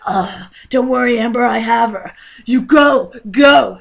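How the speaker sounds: loud, urgent order; heroic shout. Retold or imitated. Brother in a Venom costume yells at his sister to flee. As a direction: yell at her to run. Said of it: "and he's like".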